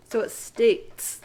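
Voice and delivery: "states" slowly with T and S joined; ts cluster. Shown as a demonstration. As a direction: press the T and S together in "states". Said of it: "Do you hear the T and the S together".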